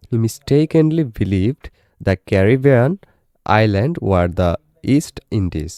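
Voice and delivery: very slow English, broken into short phrases; deliberate teacher's dictation pace; careful pronunciation reading. Shown as a demonstration. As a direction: sound out each phrase for the class. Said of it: "উচ্চারণ সহ দেখে".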